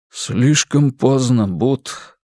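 grim. Acted. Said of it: "мрачно ответил Туки".

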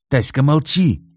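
high, loud husband's shout; barked order. A narrator's reading. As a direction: shut her up sharply. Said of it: "прикрикнул на неё Кит". (окрик, высоко и громко)

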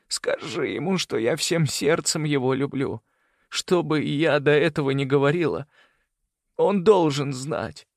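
put-on a dying mother begging for her children; dying woman, pleading. A narrator's reading. Dying Celeste voice.

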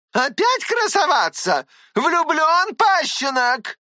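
high, sneering aunt, last word slow; scornful old aunt, pitched high; mocking aunt. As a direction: jeer at the lovesick boy. Tatyana mocks the hero.

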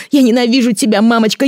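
put-on high, loud child's hate; screamed. A narrator's reading. Son screaming he hates his mother. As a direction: scream it at her.

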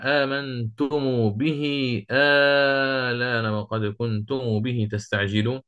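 slow, measured tajwid recitation; Quran recitation. Shown as a demonstration. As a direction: recite it slowly like a verse. Quoting Quran verse in recitation.

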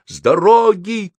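громкий крик, высоко; кричит, чтобы уступили дорогу. A narrator's reading. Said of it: "крикнул он". (громко крикнуть)

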